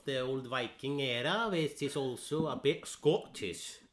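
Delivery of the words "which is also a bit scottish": put-on Scottish accent. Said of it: "It is a little bit".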